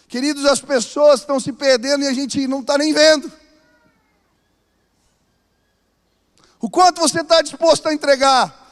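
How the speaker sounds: loud, rising, urgent exhortation to the church; preaching at full force. Acted. Preacher urging the church to reach neighbours, loud and urgent. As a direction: hammer it home to the congregation.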